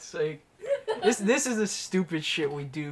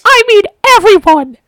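sudden high, very loud yell; comic ear-splitting shout; mock bellow; 21 dB louder than usual. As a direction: blast it straight into the mic. Shouts to make listeners' ears bleed.

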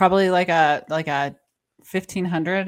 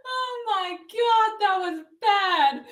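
laughing; 11 semitones higher, much slower than usual. Real, not acted. Still laughing after call.

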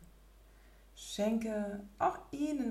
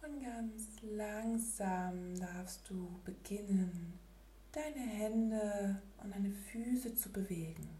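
soft spa whisper; 6 dB quieter than usual. Acted. Gently waking from meditation.

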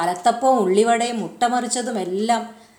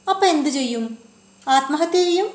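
startled; 6 semitones higher than usual. A narrator's reading. Child's startled questions.

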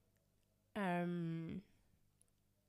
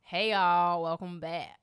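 weak American accent, loud greeting; attempted American accent; 6 dB louder, much slower than usual. Shown as a demonstration. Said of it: "do the same thing in every accent".

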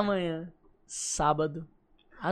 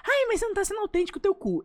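mocking whiny critic; 10 semitones higher than usual.

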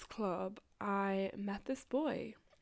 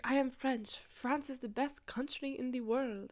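mock French accent; 4 semitones higher than usual. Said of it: "I don't think that's a French accent".

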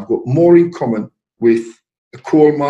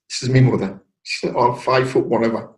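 ordinary talk, nothing marked

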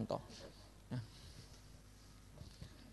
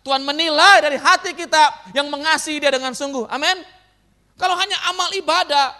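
loud, higher-pitched pulpit delivery; forceful preaching; 6 semitones higher, 8 dB louder than usual. Real, not acted. Preacher telling the congregation God weighs the heart, forceful. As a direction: drive each point home to the congregation.

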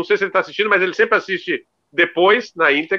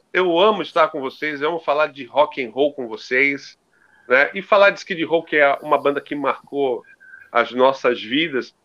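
velvety voice; 3 semitones lower than usual. Pretend. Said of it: "com aquela voz aveludada".

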